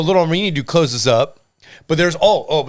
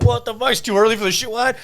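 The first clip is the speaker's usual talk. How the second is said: retold disbelief; 8 semitones higher than usual. Retold hungover reaction to gun.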